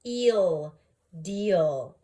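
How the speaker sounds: "eel, deal" blended loudly with a long ee; sounding out. Shown as a demonstration.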